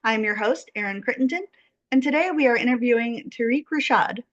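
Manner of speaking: measured, scripted guest introduction; podcast host introduction. Acted. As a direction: present the guest to the listeners.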